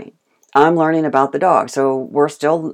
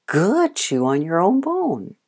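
easy praise; 3 semitones higher, slower than usual. Shown as a demonstration. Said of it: "walk off".

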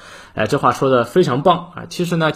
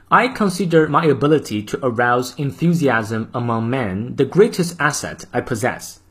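model reading. Shown as a demonstration. Teacher reading the full quote aloud for practice. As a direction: clear even English model reading. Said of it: "从头到尾我们来过三遍".

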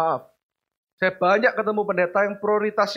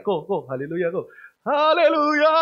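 mock haleluya; 4 dB louder, slower than usual. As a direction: tease in church with a shouted hallelujah. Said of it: "Adik saya mulai". (adik menggoda koko, teriak haleluya)

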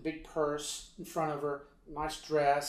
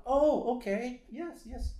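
high-pitched, friendly acknowledgement; encouraging; 9 semitones higher, 4 dB louder, slower than usual. Retold or imitated. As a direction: imitate nodding someone along, pitched up. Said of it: "my nature and all that was to smile".

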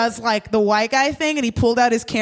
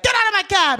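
mock yell; 9 semitones higher, faster than usual. The cab driver throwing them out, a mock yell.

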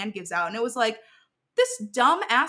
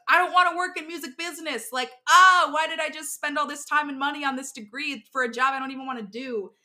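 frustrated inner voice; 5 semitones higher, 3 dB louder than usual. Retold or imitated. Retold inner frustrated outburst.

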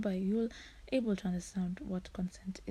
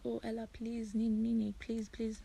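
mild mock pleading; 3 semitones higher than usual. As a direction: plead like a friend who badly wants to borrow it. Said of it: "you start pleading with me".

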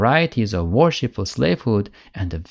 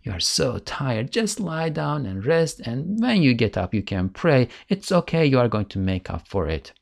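soothing tempter. Retold or imitated. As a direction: lull him out of praying. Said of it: "or, you know".

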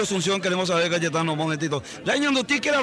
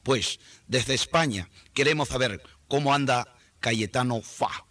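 put-on lower, Castilian-accented broadcaster voice; Spanish radio announcer; 10 semitones lower, 3 dB quieter than usual. Announcer in Madrid hands over to Paraguay, Castilian accent. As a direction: play a pompous Madrid announcer handing over the line.

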